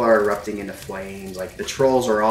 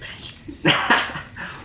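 short breath of laughter; brief amused laugh. Real, not acted. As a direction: let out a quick laugh. Amused at the players' banter.

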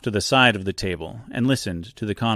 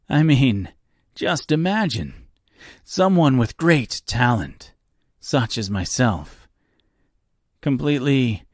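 self-pitying host; 3 semitones higher than usual. Acted. Reginald complaining to Dorothy about his lonely life, hammed self-pity.

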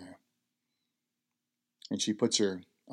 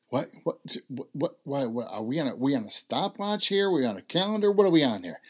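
rising, louder alarmed "what?"; can't believe what he's hearing; shocked disbelief; 5 semitones higher, 6 dB louder than usual. Retold or imitated. Son's alarmed disbelief at request.

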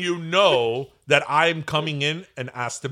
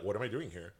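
mock bewildered mutter, softer; puzzled aside; 5 semitones lower, 10 dB quieter than usual. Guest at grand entrance, softly puzzled. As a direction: wonder aloud under the breath. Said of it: "and you're like".

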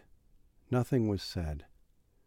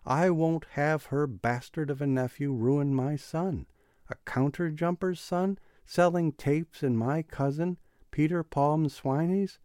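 loud, higher, furious outburst; angry shout; 7 semitones higher, 6 dB louder than usual. Acted. Father raging about his son's bad company, angry shout. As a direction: rage at the nephew, full voice. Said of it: "he cried above the clatter of the wheels".

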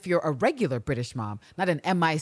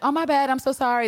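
mock polite apology; 8 semitones higher, 5 dB louder than usual. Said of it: "she's like".

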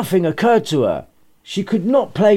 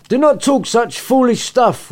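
a cross mother scolding, raised pitch; annoyed mother; 7 semitones higher than usual. Acted. Mother scolding her daughter after the night's mess, irritated. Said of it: "vibe of pissed off mother in her voice".

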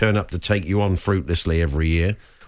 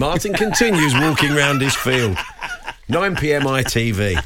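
mock TV announcer; 3 semitones higher than usual. Mock TV trail for invented show.

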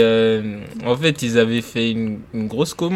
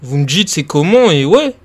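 calm, reassuring, pitched up high; super calm; 4 semitones higher, 4 dB louder than usual. Retold or imitated. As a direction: soothe the worried guys. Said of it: "super calme, en mode".

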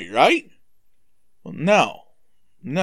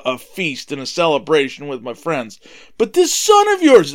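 bitter son rising to an angry complaint; resentful older son; 3 semitones higher than usual. Acted. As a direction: list your grievances to your father, building to an outburst. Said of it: "And the son's mad".

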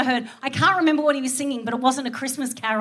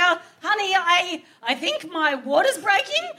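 soft slow wake-up; 5 semitones higher than usual. Retold or imitated. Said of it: "And so I'm like".

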